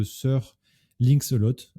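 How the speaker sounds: English name in a French accent. Real, not acted. Presenter naming an English-speaking video maker, French accent. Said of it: "avec mon magnifique accent, euh, français".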